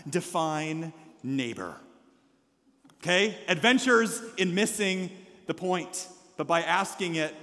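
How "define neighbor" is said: slow, softer back-talk; understated mock sass, dragged out; mock sassy. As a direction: imitate a kid talking back, drawing it out. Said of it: "when they get sassy or rude or talk back".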